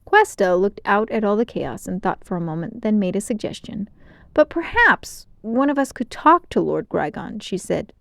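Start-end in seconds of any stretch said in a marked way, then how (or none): 4.3-7.4 hopeful. A narrator's reading. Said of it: "a glimmer of hope in her voice".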